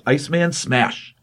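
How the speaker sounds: lightly voiced snow monster, drawn out; mock monster battle cry. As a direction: imitate a huge brute's slow catchphrase, without shouting. Giant snowman's battle cry, acted out.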